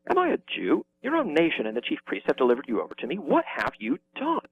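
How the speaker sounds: a hint of an irritated governor; a little testy. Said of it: "Pilate gets a little testy".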